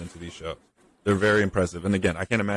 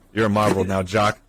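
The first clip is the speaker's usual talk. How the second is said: mock taunt; 5 dB louder than usual. Voicing the geek taking revenge.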